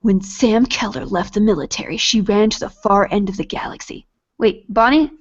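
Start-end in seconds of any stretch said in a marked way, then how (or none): 0.0-4.1 dramatic book-blurb narration; storytelling voice. Acted. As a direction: read it like a movie trailer. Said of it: "I gotta do the good voice".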